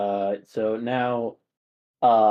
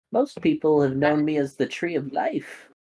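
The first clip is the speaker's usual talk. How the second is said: put-on high elderly woman voice; 5 semitones higher than usual. Playing through a game's dialogue, the speaker voices Grandmother Willow: old-lady voice. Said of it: "an old lady's face kind of look down and goes".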